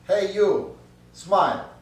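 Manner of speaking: loud, high call from the shop; yelling bird. Acted. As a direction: shout it at the passer-by. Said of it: "yelling at him".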